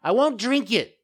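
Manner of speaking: high, loud tearful puppet protest; crying refusal. A narrator's reading. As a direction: cry out like a child in a tantrum. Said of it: "bursting out crying".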